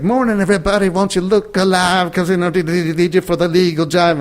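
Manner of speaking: mock-cheery courtroom wake-up call; bailiff character. Rehearsing a bailiff role, high hammed-up announcer. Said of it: "the character was supposed to".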